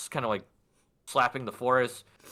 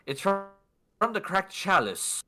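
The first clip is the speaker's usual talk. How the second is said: halting, high-pitched stammering courier; Dander; 7 semitones higher than usual. Acted. Flustered courier answers the yelling stranger, halting and high. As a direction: stumble over the answer, voice raised in pitch. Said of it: "stumbles over himself for a second and goes".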